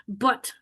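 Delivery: But with the open English carat vowel, a short uh sound. Shown as a demonstration. Teacher demonstrating the English vowel in But to students, soft. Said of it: "qui est dans but".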